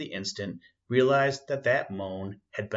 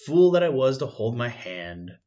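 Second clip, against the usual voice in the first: louder bitter outburst; angry self-reproach; 6 dB louder than usual. Acted. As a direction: curse his own caution.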